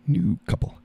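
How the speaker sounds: New couple in a squeaky high voice; a silly high-pitched echo; high squeak. Pretend. Echoes line in squeaky voice.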